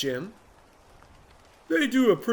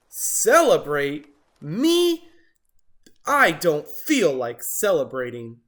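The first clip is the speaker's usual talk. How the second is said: grumpy Jim; 6 dB louder, slower than usual. Acted.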